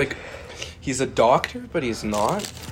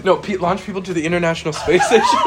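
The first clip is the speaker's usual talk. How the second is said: laughing; 4 semitones higher, 4 dB louder than usual. Real, not acted. Laughing through hot-wing pain.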